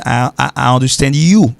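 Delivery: "I understand you" en anglais parlé; démontrer la phrase anglaise; anglais démontré. Shown as a demonstration. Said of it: "il n'est pas sorti you understand me". (démonstration en anglais)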